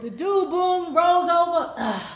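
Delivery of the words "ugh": spent grunt. Retold or imitated. Boom grunts as he rolls over.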